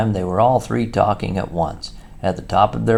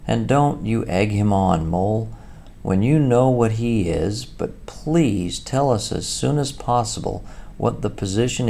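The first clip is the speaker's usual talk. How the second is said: scolding Rat; 4 semitones higher than usual. Acted.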